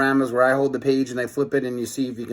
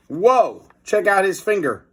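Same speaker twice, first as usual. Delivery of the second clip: amazed; 8 semitones higher, 5 dB louder than usual. Real, not acted. Reader reacts to giant hero.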